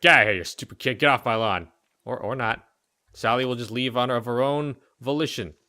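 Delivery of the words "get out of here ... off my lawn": lightly voiced grouch, louder; a hint of a gruff neighbor shooing a kid; grumpy lawn guy. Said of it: "He's gonna be like".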